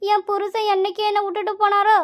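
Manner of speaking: acted crying, words drawn into a steady wail; tearful lament. Mother-in-law pours out her troubles to visiting friends, tearful. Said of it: "Pankajam, அழாதடி".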